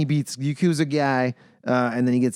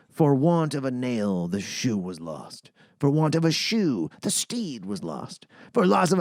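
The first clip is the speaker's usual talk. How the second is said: mock solemn proverb. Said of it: "The Japanese have a saying".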